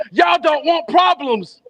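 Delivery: a hammed-up poetic gang yell; yelling threat. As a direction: bark the threat slow and high. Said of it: "he started yelling".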